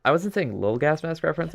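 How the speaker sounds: high, indignant mock protest; mock defensive. Shown as a demonstration. Streamer defending his words to chat in a high, mock-indignant voice. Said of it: "I was saying, like".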